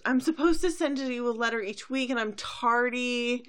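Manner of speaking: Twilight. Retold or imitated. Student explaining herself to the princess, high fretful plea. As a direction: plead like a fretting student. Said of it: "She goes".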